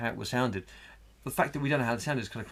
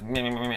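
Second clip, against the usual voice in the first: staccato mimicry. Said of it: "staccato sort of like".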